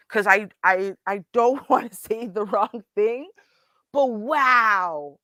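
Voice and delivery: muffled behind a hand; hand over mouth. Real, not acted. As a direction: speak through fingers over the mouth. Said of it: "I have my hand over my mouth".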